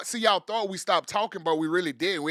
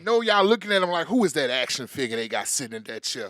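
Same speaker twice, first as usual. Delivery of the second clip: loud hype; 5 semitones lower, 3 dB louder than usual. Acted. Hype man talking up guest.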